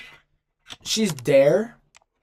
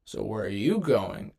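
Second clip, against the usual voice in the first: lightly imitated, slow, nonchalant Jesus; a hint of a laid-back voice actor; nonchalant imitation; 3 semitones lower, slower than usual. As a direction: drawl it out like you couldn't care less. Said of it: "He always talks so, like, nonchalantly".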